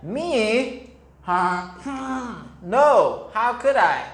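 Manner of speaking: perky high horse voice, denying it; a playful horse protesting innocence; horse's reply. Acted. Teacher voicing the horse for children, lightly playful. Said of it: "the horse said".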